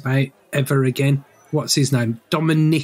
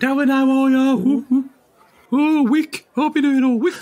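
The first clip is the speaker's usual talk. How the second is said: much higher, hammed-up Black Country voice; comic Black Country accent; 12 semitones higher than usual. Teasing his co-host with a high Black Country accent. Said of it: "if you did it with the accent".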